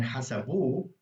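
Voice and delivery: hasabu with a long, stressed final -bu; stress on last syllable. Shown as a demonstration. Teacher contrasts "they counted it", final syllable of hasabu stressed. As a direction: lean on the end of hasabu. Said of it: "emphasize the last syllable".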